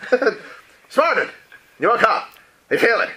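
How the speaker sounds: high, loud and drawn-out slow question; pushy question. Acted. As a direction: lean in and press her with it, slowly. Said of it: "excuse me, excuse me?".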